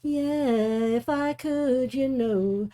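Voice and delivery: breathless sung ending, catching air; short of breath. Real, not acted. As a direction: sing out of breath, gasping between phrases. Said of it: "A bit short of breath".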